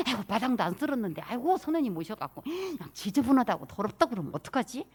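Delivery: mildly flustered, sighing worry; worried fretting. Acted. Host frets over an unswept yard before a guest, worried. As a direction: fret as if caught unprepared. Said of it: "걱정이스럽지 않게".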